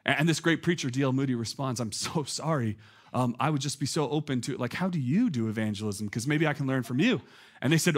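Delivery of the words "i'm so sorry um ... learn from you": low, softened humble voice; humble reply. Retold or imitated. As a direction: mildly imitate a meek, open apology. Preacher's humble reply to his critics.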